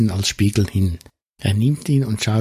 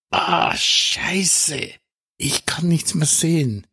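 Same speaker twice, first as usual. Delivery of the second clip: höher, gepresst vor Schreck; leicht gespielter Schmerzschrei; 5 semitones higher, slower than usual. Acted. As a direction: als würde grelles Licht blenden. Geblendet, fällt nach hinten. (Rob, vom Lichtblitz geblendet, ruft erschrocken)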